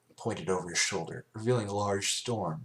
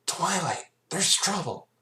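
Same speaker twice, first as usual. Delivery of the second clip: much higher and louder urgent cry; alarmed call; 11 semitones higher, 5 dB louder, slower than usual. A narrator's reading. Rainbow Dash calling Twilight about the smoke, alarmed shout. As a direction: shout the warning across. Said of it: "Hearing the concern in Dash's voice".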